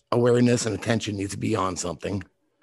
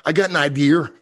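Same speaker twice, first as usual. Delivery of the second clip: higher, louder mock Boston accent with dropped R's; 7 semitones higher, 6 dB louder than usual. Shown as a demonstration. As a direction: show off the Boston way, R's moved around. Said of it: "Like, you would say".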